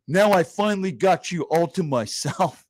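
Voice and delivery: slow, leering come-on; hammed-up lounge-lizard Dice Clay; sleazy Dice Clay. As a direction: purr it like a smug comic flirting with a date. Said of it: "and he goes".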